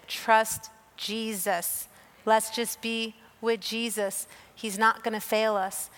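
a lightly voiced husband, calm and slow; calm chill husband. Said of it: "who's just so chill".

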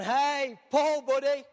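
grumpy Silas hushing Paul; annoyed Silas. Retold or imitated. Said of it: "he's going".

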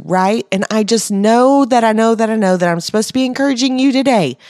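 rally them to stop hesitating and go all in; fervent exhortation. Real, not acted. Exhorts the audience to act.

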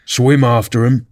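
mild mock scream; understated excited cry. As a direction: urge them on without really screaming. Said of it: "screamed the Gryphon".

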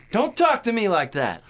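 high, loud mock scolding; angry retort. Cop snaps back at the man advising him, acted loud anger. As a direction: act out shouting someone down.

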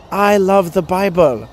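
slow, lightly imitated Asian accent; mock Asian-accented declaration, drawn out. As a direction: say it slowly, mimicking an Asian accent. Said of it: "she said it to me in an Asian accent".

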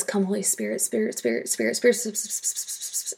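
soft hissing whisper, leaning on the S of "Spirit"; rapid whisper. Retold or imitated. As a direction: let "Spirit, Spirit" run together in a whisper. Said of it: "rapid whisper of the S sound".

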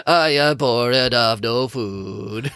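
hammed-up frail old man; mock the reader's old man. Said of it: "Who talks like that?".

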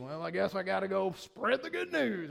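put-on dutiful reluctance; mock grudging obligation. Preacher mimics a believer who feels obliged, mock reluctant. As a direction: grudgingly take on a chore. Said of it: "not an obligation".

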